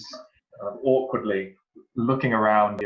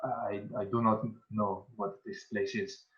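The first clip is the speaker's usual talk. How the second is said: hesitant, overwhelmed character; 9 dB quieter than usual. Acted. Player answers as overwhelmed Saluk.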